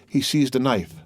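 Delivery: plain reading voice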